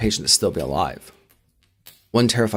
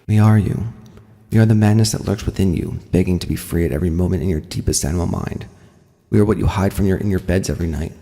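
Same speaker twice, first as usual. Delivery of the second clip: menacing monster voice; 2 semitones lower, 3 dB louder than usual. Acted. Monster speech from subject.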